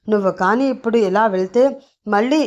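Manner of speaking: a mild mock shout of an angry father; half-voiced angry warning; remembered shout. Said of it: "గట్టిగా అరిచి చెప్పడం".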